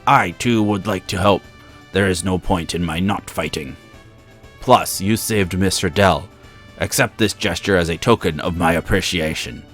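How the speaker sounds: loud. Acted. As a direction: proclaim it big and loud. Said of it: "being able to be a little louder than usual".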